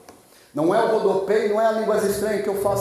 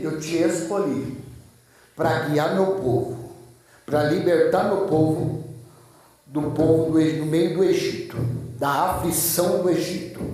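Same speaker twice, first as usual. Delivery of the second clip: low, measured commission; low, grave divine calling; solemn God's voice; 4 semitones lower than usual. Acted. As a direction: lower the voice and pause between phrases. God commissioning Moses, acted.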